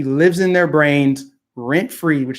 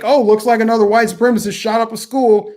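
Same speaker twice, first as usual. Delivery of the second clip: mock smug media; 6 semitones higher, 3 dB louder than usual. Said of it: "they'll put that stuff out there like".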